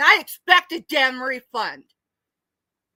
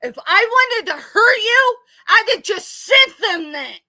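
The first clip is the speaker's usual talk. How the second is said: crying; 5 semitones higher, 5 dB louder than usual. Real, not acted. Crying while confronting accuser.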